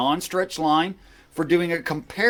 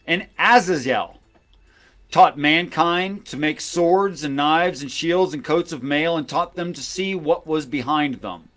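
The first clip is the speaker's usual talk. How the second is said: scripture reading. Acted. Reads Book of Enoch aloud.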